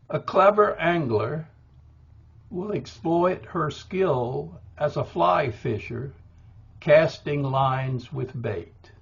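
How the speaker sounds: measured, slow poem reading. Shown as a demonstration. Poet reading his own lines to a class, slow and measured. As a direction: read the lines slowly, letting each beat land. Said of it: "I'll offer just quickly four lines".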